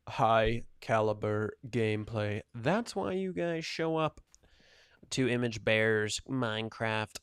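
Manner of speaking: slow, loud robot voice. Pretend. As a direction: drag it out like a robot. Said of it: "Stop the stupid robot voice".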